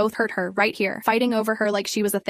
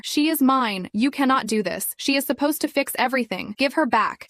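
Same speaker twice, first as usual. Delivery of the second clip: frantic screaming; 3 semitones higher than usual. Acted. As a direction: lose all control. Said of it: "screaming things that did not make sense".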